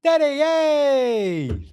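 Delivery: put-on high, loud squeal of a happy toddler; excited baby voice. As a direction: squeal it like a little kid greeting dad. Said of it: "what the baby squid says".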